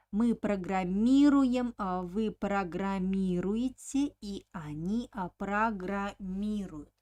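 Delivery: программируем, программируете, программируют, each stressed on МИ; drilled stress on МИ in программируем, программируете, программируют. Shown as a demonstration. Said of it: "on the letter E".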